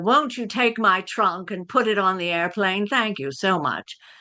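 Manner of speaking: put-on, studio-trained transatlantic accent. Showing a transatlantic accent from 1940s black and white movies: transatlantic accent. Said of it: "That's a transatlantic".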